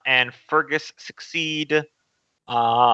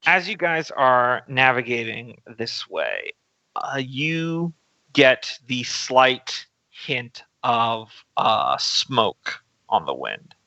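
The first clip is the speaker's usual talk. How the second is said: slow, measured scene setting; game master narration; slower than usual. A narrator's reading. Game master to players travelling through jungle, slow narration. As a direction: lay out the scene slowly, pausing between phrases.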